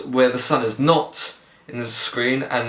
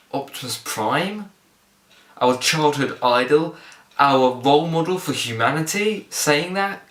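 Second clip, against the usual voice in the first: incredulous. Real, not acted. Outraged at the hero's line.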